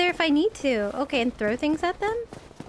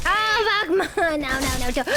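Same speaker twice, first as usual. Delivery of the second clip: being chased; 3 semitones higher than usual. Real, not acted.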